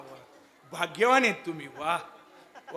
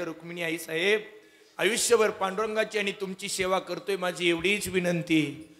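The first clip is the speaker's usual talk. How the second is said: humble prayer; 2 semitones lower than usual. Acted. Father prays to Rukmini.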